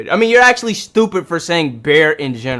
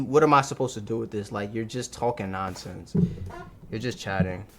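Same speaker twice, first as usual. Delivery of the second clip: exasperated mutter; 5 semitones lower, 10 dB quieter than usual. Real, not acted. Exasperated quiet rant.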